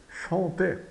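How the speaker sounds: chanter as "shan-tê", the R silent; closed final E. Shown as a demonstration. Teacher repeats the verb for learners, chanter with closed E. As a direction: end chanter on a closed "ê" after the nasal vowel. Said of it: "tem o som do E fechado".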